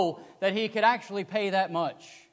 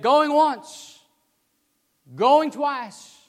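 loud, higher auctioneer chant; auctioneer calling out; 6 semitones higher, 7 dB louder, much slower than usual. Retold or imitated. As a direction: call the last bids to the crowd. Auctioneer calling final bids.

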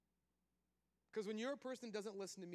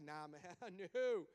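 laid-back God; 4 dB louder, slower than usual. Retold or imitated. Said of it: "And God's like".

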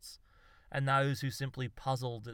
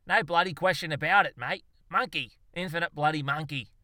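louder, higher, glaring insistence; exasperated retort; 4 semitones higher, 7 dB louder than usual. A narrator's reading. Zoologist corrects the muddled poet, exasperated. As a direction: push back hard at your mate. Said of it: "glared back at him".

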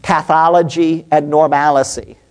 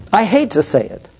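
holding back tears. Real, not acted. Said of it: "without, quite frankly, crying".

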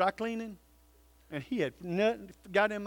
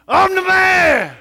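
much louder and higher, slow and full-throated; big man shout; 10 semitones higher, 15 dB louder, slower than usual. Shown as a demonstration. Pastor leads the men in a stadium-style shout. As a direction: bellow it like at the football game. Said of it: "as loud as we can in our best man voice".

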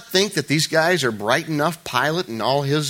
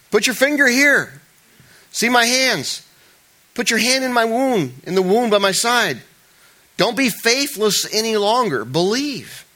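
Jesus speaking; 8 semitones higher, 4 dB louder than usual. Acted. Jesus addressing Thomas in reading.

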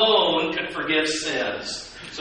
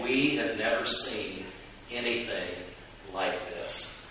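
lower, much softer, fading to breath; hushed amazement; 7 semitones lower, 9 dB quieter than usual. A narrator's reading. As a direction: let the wonder fall to a hush. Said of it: "amazed everyone".

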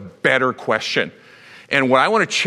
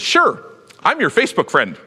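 breezy shrug; 4 semitones higher than usual. Retold or imitated. Mocking Peter's shallow reply.

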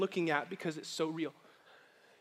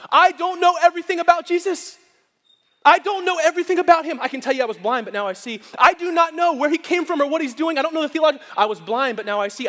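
voicing the healed blind man at full preaching force, much higher and louder; 6 semitones higher, 9 dB louder than usual. Preacher voicing the blind man in loud testimony. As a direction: proclaim it like a man who just got his sight.

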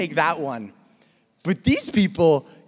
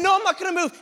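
mock stubborn refusal; 10 semitones higher, much faster than usual. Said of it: "continual pattern of".

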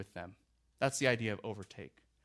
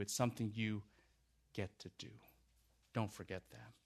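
hushed pastoral appeal; 2 semitones lower than usual. Acted. Pastor pleads gently with congregation.

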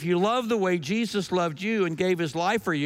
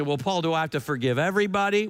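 imitated listener; 2 semitones lower, faster than usual. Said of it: "You say".

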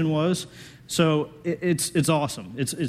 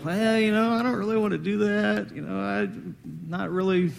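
reluctant whine; 6 semitones higher than usual. Retold or imitated. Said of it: "You don't go".

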